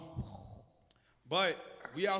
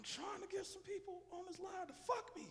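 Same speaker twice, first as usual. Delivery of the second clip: shouting; 13 semitones higher, 15 dB quieter than usual. Real, not acted. Shouting to people on stream line.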